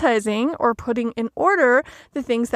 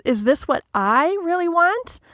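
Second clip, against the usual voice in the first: I stressed, rising higher into a question at want; 5 semitones higher than usual. Shown as a demonstration. Coach voicing our self-questioning thought, stress on I. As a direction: ask yourself, leaning on I, voice climbing at the end. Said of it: "putting the emphasis on the word you".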